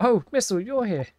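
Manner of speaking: an excitable, devoted puppy fussing over his mistress; Missile the dog. Acted. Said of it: "You enjoy my take on Missile?".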